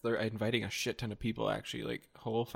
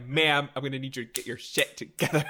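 bossy coordinator voice; 5 semitones higher, 6 dB louder than usual. Pretend. Bossy wedding coordinator role.

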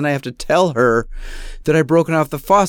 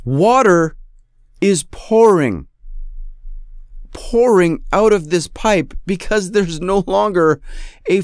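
dragged-out outrage at the broken faucet; exasperated; 4 semitones higher than usual. Real, not acted. Exasperated disaster telling.

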